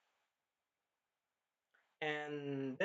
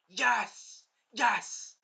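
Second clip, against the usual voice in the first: raised-pitch excited cheer; mock screaming cheer; 6 semitones higher, 4 dB louder than usual. Fan reliving the stabbing, mock screamed cheer. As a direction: cheer in short bursts, half screamed. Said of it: "I was screaming in my".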